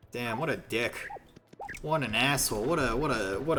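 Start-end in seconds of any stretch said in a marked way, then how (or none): none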